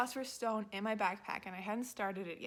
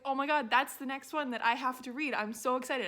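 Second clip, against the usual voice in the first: louder, gushing with delight; excited friend; 4 semitones higher, 6 dB louder than usual. Retold or imitated. Friend spotting the next book, mildly mock excited. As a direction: retell a friend's eager squeal, only a touch raised. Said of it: "she started freaking out".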